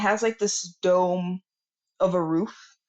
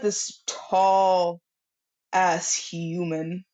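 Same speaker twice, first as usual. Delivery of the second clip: ordinary delivery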